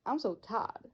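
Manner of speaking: "tired" flattened to "tad" in a Texan accent. Shown as a demonstration. Student shows how Texans say "I'm so tired", Texan accent.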